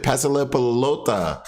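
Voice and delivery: put-on Spanish soccer call with a Latin accent. Player calling for the ball, Latin accent. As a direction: roll it out like a Latin American player. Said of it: "a person with a Latin accent".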